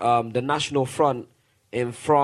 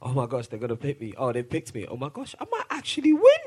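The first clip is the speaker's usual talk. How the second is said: mock excited Trump; faster than usual. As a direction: play Trump thrilled he might win, laughing. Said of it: "It's almost like".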